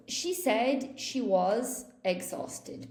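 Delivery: slowly, every word clear; slow model sentence. Shown as a demonstration. Teacher slowly modelling a correct sentence. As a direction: spell it out slow for learners. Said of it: "For example".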